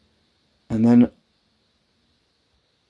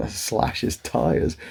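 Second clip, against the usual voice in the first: incredulous echo; 2 semitones higher, much slower than usual. Retold or imitated. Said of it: "What the fuck, Mum?".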